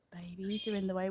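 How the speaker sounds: soft unvoiced whisper aside; quick hushed aside about the babies. Real, not acted. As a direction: whisper it so as not to disturb. Aside while babies block view.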